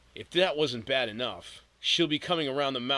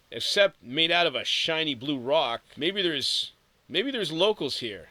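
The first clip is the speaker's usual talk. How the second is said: wondering aloud; 4 semitones higher, 5 dB louder than usual. Acted. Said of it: "she wondered".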